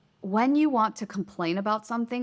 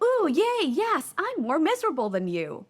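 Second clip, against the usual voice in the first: much higher, hammed-up squeal of fake glee; mock excited; 9 semitones higher than usual. Mocking a one-downer who wins at misery, in a hammed-up squeal. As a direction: parody a gleeful win at being miserable. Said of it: "I don't wanna be like".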